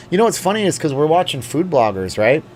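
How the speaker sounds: a lilting touch of Canadian accent; slight Canadian accent. Real, not acted. Food-blogger chat to the viewers, slight Canadian accent. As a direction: slip lightly into a Canadian accent. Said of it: "I sound totally Canadian".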